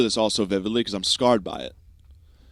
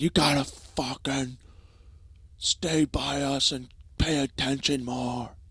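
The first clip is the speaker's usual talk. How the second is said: slow, higher caricature of dad; mock scolding dad; 5 semitones higher, slower than usual. Dad telling off his lost son, mock scolding. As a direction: drag out an exaggerated parental telling-off. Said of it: "and he fucking yelled at me".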